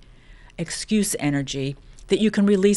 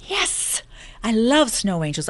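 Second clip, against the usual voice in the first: high breathless burst of delight; excited yes; 4 semitones higher, slower than usual. Real, not acted. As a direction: gasp it out, thrilled. Excited reply about snow angels.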